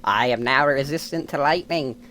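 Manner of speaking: a faint hint of a bug voice; half-hearted insect character voice. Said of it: "the insect voice has lost a bit of its luster".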